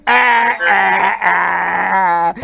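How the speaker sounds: long helpless laughter trailing off; breathless laughing; laughing fit. Real, not acted. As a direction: laugh until you wheeze. Laughing hard at joke.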